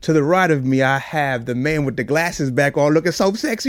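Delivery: podcast opening that climbs in pitch and volume; hype host intro. Acted. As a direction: introduce your co-host like a ring announcer. Podcast host's show opening.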